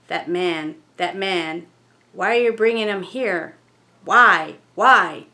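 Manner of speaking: steady, then a loud cry on the repeated why; rising from a complaint to a shout; building spirit outcry. Acted. Ghost through the medium demanding why the man was brought, building to shouts.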